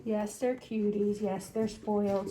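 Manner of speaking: soft, slow doting pet voice; talking to puppies. Real, not acted. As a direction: coo gently at the dogs.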